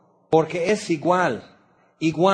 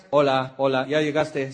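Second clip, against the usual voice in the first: welcoming greeting. Retold or imitated. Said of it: "¿te gustaría que los que te esperan en la rampa te dijeran".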